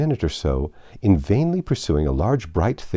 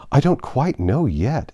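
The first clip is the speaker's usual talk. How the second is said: very gently; 5 semitones higher, 4 dB louder than usual. Acted. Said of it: "Alice said very gently".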